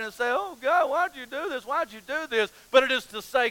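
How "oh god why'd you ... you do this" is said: softly put-on pouty complaint; mock whining. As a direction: whine it lightly, like a sulking believer. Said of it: "whine and complain and pout about it".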